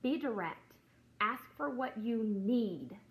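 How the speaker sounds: slow, firm quoted verse; preacher quoting Matthew to viewers, slow and firm; scripture read. Shown as a demonstration. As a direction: lay down each word of scripture. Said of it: "it says".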